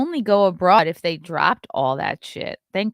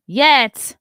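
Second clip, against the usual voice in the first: teasing; 6 semitones higher, 10 dB louder than usual. Real, not acted. Reacting to a donation message.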